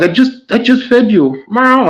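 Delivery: high voice for the cat; cat meow. Retold or imitated. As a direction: say it like a pestering cat. Voicing the cat, then the owner's reply.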